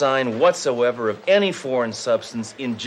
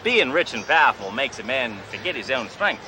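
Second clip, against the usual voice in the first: fake Australian accent. Undercover cop posing as a rich car dealer, in a hammy Australian accent. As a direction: play a cocky Australian tycoon in a put-on Australian accent. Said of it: "Name's Crocodile Bruce".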